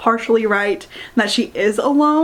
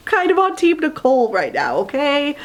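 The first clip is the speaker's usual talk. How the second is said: laughing; 4 semitones higher than usual. Real, not acted. Laughing admission of a hot take.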